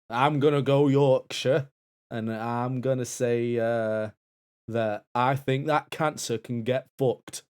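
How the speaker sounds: put-on loud slow Yorkshire accent. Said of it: "fuck cancer in a northern accent".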